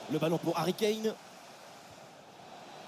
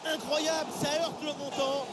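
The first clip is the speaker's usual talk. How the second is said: excited sports commentary; 6 semitones higher than usual. Real, not acted. Shot hits the post.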